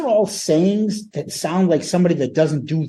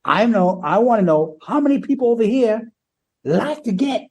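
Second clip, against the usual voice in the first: imitating Paul; 3 semitones higher than usual. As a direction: ham up the frontman teasing the crowd. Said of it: "this is what Paul says".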